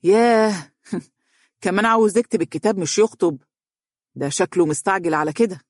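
mocking "ياه" with a short laugh; sarcastic. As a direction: needle the father with irony. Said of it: "وقال متهكما". (بتهكم وسخرية)

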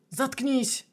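shouted. A narrator's reading. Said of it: "выкрикнул первый".

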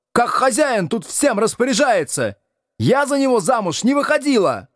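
high shrill furious cry; raging. Acted. Надя бушует на мужа из-за гостя, яростно и высоко. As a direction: rage at him in a high voice. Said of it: "бушевала Надя".

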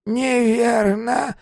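very slow, high, lost murmur rising; old woman led away, bewildered. Acted. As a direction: repeat it confused and defeated. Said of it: "растерянно повторяла мисс Мэри".

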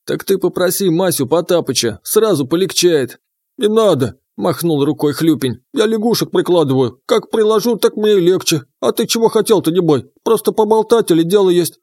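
high croaky frog spirit; lively croaking water spirit; frog creature voice. Acted.

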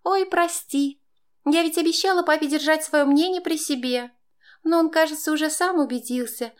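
high, fake-sorry mockery; sweetly twist the knife; mocking. A narrator's reading. Stepdaughter mocks stepmother with fake apology. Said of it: "Издевалась она".

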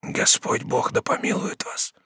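slow breathless whisper; dying prisoner whispering a blessing. Acted. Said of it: "прошептал умирающий".

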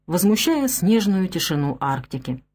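ordinary delivery, nothing marked

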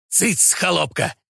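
slow, threatening hiss. A narrator's reading. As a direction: hiss it to silence an underling. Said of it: "прошипел упырь".

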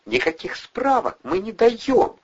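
high, sharp cutting refusal; curt snap. A narrator's reading. Nurse refusing Andrei information, curt snap. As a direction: cut him off flatly. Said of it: "отрезала медсестра".

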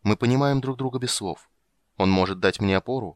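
plain reading voice

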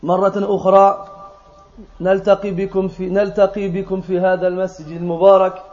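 brisk, even-toned Arabic invocation; formal sermon opening. Acted. Speaker greets brothers in the mosque after prayer, formal sermon opening. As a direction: recite the formal Arabic opening at a quick, level pace.

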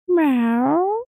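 high nasal meow; cat meow. Acted. Cat's meow voiced.

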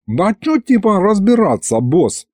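lazy yawning voice. Acted. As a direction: say it through a yawn. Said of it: "зевнул Аристофан". (сквозь зевоту)

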